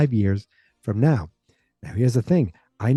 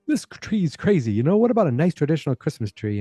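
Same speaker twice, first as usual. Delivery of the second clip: higher-pitched disapproving quote; mock objection; 4 semitones higher than usual. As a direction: act out a mildly fussy objection. Acted objection to odd tree.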